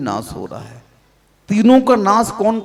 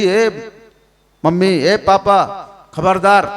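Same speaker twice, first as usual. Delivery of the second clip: threatening daughter; 4 dB louder than usual. Retold or imitated. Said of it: "अगर उसने धमकी दे दी".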